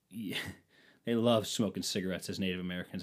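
a laughing, secretive whisper; conspiratorial whisper with a laugh; whispered aside. Shown as a demonstration. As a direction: lean in and whisper it like a naughty secret. Repeats joke as a whisper.

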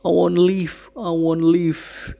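a hint of a childlike voice, slowing down; lightly voiced frightened child, pleading; understated childish refusal; childlike plea. A narrator's reading. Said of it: "quite childlike now".

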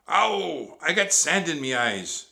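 high, loud, pained whine; loud complaining whine; whining pirate. A narrator's reading. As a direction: wail it like a whiny pirate deckhand. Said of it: "Pinky whined".

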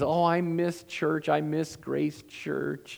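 lightly voiced elderly woman, slow and wistful; a hint of Shirley sighing over the phone, slowed down; old friend's longing. Pastor retelling Shirley on the phone, mild wistful voice. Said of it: "And she says".

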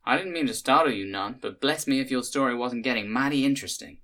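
honeyed Southern hostess, a touch puzzled. Acted. Cynthia speaks again.

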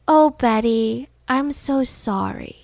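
slow, drawn-out tender apology; pitying. Retold or imitated. Candy feeling bad for Betty, slow and pitying. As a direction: let pity stretch every word. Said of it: "the pity in Candy's voice".

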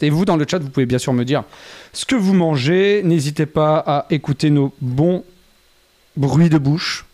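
parle en mâchant; la bouche pleine de pâtes. Real, not acted. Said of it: "on mange et on parle à la bouche pleine". (en mâchant)

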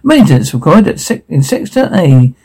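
flat public address voice; PA announcement. Acted. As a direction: announce it like a tannoy. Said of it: "Voice over P A system".

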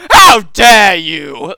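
loud, slow, hammed-up indignant shout; a pearl-clutching gentleman, appalled; theatrical offended aristocrat; mock outrage.

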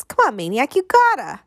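put-on high-pitched kid coaxing; excited boy wheedling; eager pleading. A narrator's reading. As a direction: beg him to say yes. Excited boy begging him to come.

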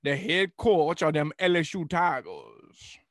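slow mild rooster-cartoon drawl; Foghorn Leghorn. Mocking the LSU coach, mild cartoon rooster drawl. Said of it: "became Foghorn Leghorn".

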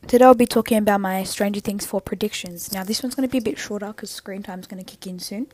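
talking while chewing gum. Real, not acted. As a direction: speak around a wad of gum. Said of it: "if you hear chewing in the back".

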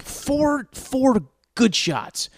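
high, slow laughing emphasis on the count. Real, not acted. Laughing as he recalls punching the steering wheel. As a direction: laugh through it, drawing it out.

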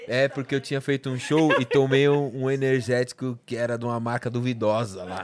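telling it through laughter; laughing. Real, not acted. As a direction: giggle while confessing the story. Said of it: "Ela ri".

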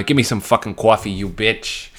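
put-on Boston accent. Joking demand to travel companion for coffee, Boston accent. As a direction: demand it like a mock tough Bostonian. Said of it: "whip out my Boston accent".

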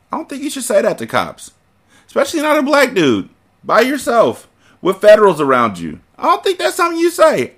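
high put-on comic voice; mocking commentary. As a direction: tease the character in a squeaky voice. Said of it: "commentary in put-on voice".

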